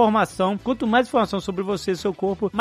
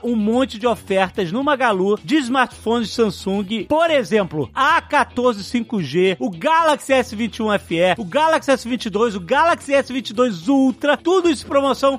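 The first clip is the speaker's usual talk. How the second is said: bright, pushy sales pitch; infomercial; 3 semitones higher than usual. Acted. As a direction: sell it like a TV ad host. Upbeat sponsored ad read.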